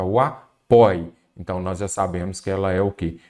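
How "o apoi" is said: apoi said slowly and louder, the stressed syllable isolated; teacher isolating the stressed syllable apoi; stressing the tonic syllable. Shown as a demonstration. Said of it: "qual que é a sílaba tônica?".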